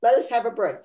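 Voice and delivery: giggling, hammed-up "we're done" voice, slowing at the start; laughing mock plea. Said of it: "And they're going like".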